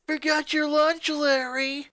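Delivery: yelled taunt. Acted. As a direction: jeer across the playground. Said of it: "a voice yelled out".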